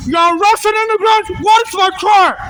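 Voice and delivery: angry protest. Real, not acted. Arguing with transit police.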